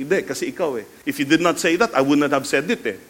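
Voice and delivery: acted grudging sorry that turns into blame; mock defensive apology; blaming apology. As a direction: make excuses while pretending to apologize. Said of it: "what kind of sorry is that".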